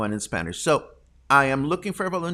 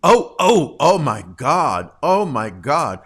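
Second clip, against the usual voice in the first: much louder, slow oh my God; scandalized; 7 dB louder than usual. Real, not acted. Host scandalized by the comments, loud oh my God. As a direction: gasp it out, shocked and delighted.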